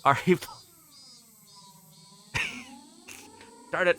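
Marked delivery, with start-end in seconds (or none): 3.7-4.0 laughing through a mock curse; laughing frustration. Real, not acted. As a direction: groan it out mid-laugh. Beaten to the joke.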